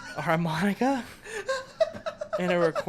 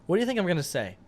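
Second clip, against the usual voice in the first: gangster voice. Acted. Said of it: "you sound like a fucking gangster right now".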